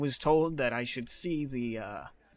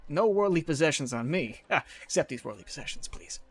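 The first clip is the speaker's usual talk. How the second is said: panicking; 3 semitones higher than usual. Acted. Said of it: "kind of panicking a little bit".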